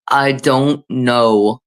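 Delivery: very slow, drawn-out bad celebrity impression; half-hearted imitation, each word stretched out; Christopher Walken. Shown as a demonstration. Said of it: "my Christopher Walken was".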